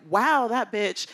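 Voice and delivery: loud and high through laughter; mock her younger self, laughing; amused self-roast with a laugh; laughing at herself. Real, not acted. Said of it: "and I was like".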